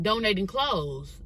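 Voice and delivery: slow, understated retort; matter-of-fact reply. Retold or imitated. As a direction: answer slowly and leave it there. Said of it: "just like that".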